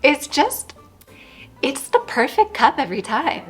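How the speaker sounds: bright, prim fifties housewife voice; a touch of a fifties housewife. Acted. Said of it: "God, I sound like a, a fifties housewife".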